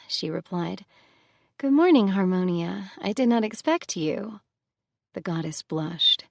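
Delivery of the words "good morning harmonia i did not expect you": higher and louder, caught off guard; surprised greeting. Acted. Persephone greets the unexpected Harmonia, high and startled. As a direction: greet her like she's the last person you expected.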